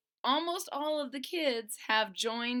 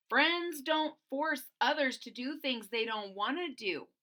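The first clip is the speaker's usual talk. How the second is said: a touch higher, firm reasoning; firm Boland; 3 semitones higher than usual. Acted. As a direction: make the point calmly but firmly. Boland argues with friends.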